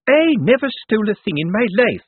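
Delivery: high, loud offended protest; bridling indignation. A narrator's reading. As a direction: bridle at the accusation. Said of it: "bridling enough for a gymkhana".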